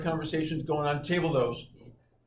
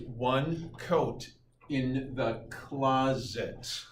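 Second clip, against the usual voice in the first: lame mnemonic; much slower than usual. Retold or imitated. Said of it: "It was lamer than lame".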